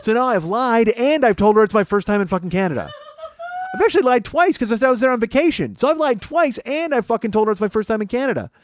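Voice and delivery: loud, high, laughing through the words; laughing panic. Real, not acted. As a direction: lose it laughing at your own blunder. Panicking realization of own lie.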